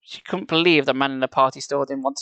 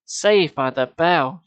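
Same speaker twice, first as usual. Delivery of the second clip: relieved; 4 dB louder, much slower than usual. Acted. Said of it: "breathed a sigh of relief".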